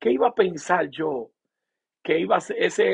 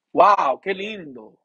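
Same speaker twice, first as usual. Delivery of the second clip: slow, louder, marvelling; awed wow; 5 dB louder, much slower than usual. Real, not acted. Preacher overwhelmed by God's presence, slow awed wonder. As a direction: let the wonder out slowly. Awe in worship.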